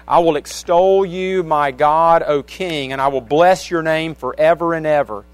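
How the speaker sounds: measured, emphatic psalm reading; scripture reading. Real, not acted. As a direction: read the verses out to the congregation with weight. Reads a psalm aloud.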